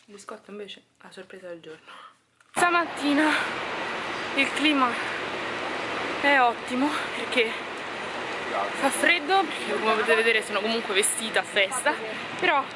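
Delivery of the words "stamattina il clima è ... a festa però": breathless from climbing; out of breath. Real, not acted. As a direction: talk while panting uphill. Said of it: "Scusate il fiatone".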